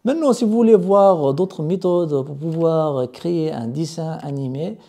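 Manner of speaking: normal talking voice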